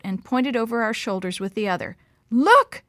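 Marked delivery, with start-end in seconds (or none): 2.3-2.8 rasped. A narrator's reading. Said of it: "she rasped".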